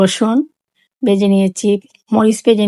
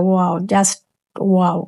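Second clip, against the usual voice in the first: delighted wow; 2 semitones lower, much slower than usual. Real, not acted. Tasting her own bhorta.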